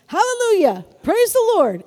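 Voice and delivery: high, loud shout of praise; joyful shout. Shown as a demonstration. Pastor demonstrating a joyful shout to the church, high and loud. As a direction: show them what a joyful shout sounds like. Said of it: "It's just a shout".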